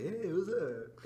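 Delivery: slow, cheerful hey-there imitation; happy. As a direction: imitate a happy janitor saying hello. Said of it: "like, happy".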